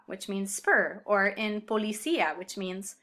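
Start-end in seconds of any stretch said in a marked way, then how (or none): 1.6-2.4 po-li-CÍ-a, separate stressed í; diphthong broken up. Shown as a demonstration. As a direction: split the final vowels of "policía", stressing í. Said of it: "use an accent to break up a diphthong".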